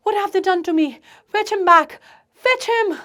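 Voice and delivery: loud, high-pitched wail. Acted. Daughter wailing to her father, loud high plea. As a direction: cry out for him to return. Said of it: "Natalia Stepnova wails".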